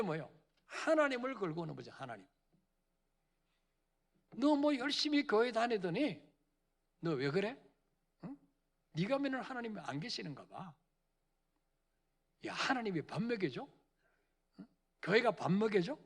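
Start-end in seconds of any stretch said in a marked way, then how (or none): 4.4-16.0 scornful jeering neighbor, lightly voiced; mocking insult. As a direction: sneer at the believer. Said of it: "이렇게 하나님을 모욕하는".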